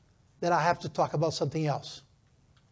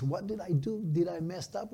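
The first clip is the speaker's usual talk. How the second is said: softer, questioning himself; quick private questions under the voice; retold self-doubt; 6 dB quieter than usual. Unsure young pastor checking himself, hushed self-doubt.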